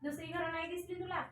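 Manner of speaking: understated acted angry questions, pitch lifted; mild mock scolding. A narrator's reading. Queen driving the old woman from her door, mildly scolding. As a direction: shoo someone off with mild storybook crossness. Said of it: "राणी ओरडली".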